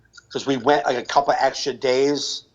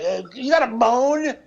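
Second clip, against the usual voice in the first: mock annoyed question; 9 semitones higher than usual. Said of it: "She'd be like".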